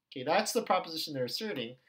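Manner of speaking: ordinary talk, nothing marked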